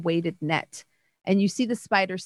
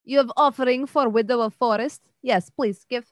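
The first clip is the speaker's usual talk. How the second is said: spider voice; 4 semitones higher, 3 dB louder than usual. Acted. GM plays the spider Widow.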